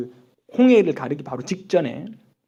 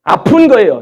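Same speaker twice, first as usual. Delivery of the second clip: loud, higher burst of anguish; pained outcry; 5 semitones higher, 12 dB louder than usual. Acted. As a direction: cry out the hurt. Bursts out about pain of unbelief. (아픔을 토하듯 외침)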